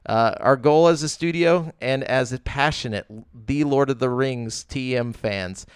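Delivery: flat robotic reading; deadpan corporate read, no feeling; bored recitation. Shown as a demonstration. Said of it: "when you read it like a robot".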